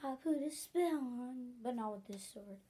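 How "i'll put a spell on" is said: a hint of a witch casting, slow; mock witch spell. Girl with a toy wand to everybody, slow mock witch voice. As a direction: drawl the spell out lightly like a play witch. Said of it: "she was like".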